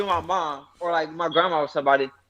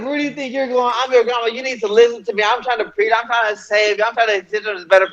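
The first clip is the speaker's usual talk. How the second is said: a hint of a preaching grandma, pitched higher; imitated grandma lecture; 4 semitones higher than usual. Grandson retells grandma stopping him leaving, imitated grandma lecture. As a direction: lightly mimic a grandmother's insistent lecture. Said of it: "She's like, she's like".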